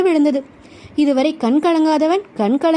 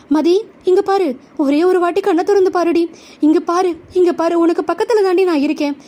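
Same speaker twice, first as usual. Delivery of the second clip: lightly urgent, higher-pitched pleading; urgent coaxing; 4 semitones higher than usual. Acted. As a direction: coax her to look at you, voice lifted a little. Man begs unconscious beloved to look.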